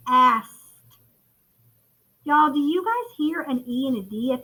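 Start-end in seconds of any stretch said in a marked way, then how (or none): 0.1-0.5 "Asked" said firmly with a final T; echo-word demonstration. Shown as a demonstration. Teacher has class say it along, "Asked" firm. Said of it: "Say it with me".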